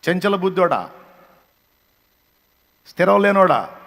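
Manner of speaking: loud fiery preaching that keeps building; preaching at full force. Acted. Preacher scolding those who lost their goal, loud fiery sermon. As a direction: hammer the congregation with rising fury.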